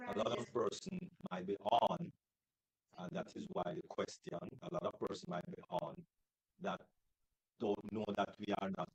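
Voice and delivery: underwater. Real, not acted. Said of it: "It sounds like you're underwater".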